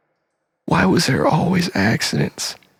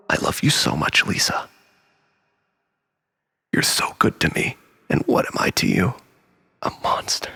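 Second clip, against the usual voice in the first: low, soft, self-pitying whisper; whispering to Lisa, wounded and low; 8 semitones lower, 4 dB quieter than usual. Acted. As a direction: sink into a bitter hush.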